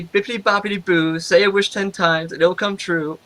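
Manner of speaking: put-on Eastern European accent. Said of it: "this thick Eastern European accent".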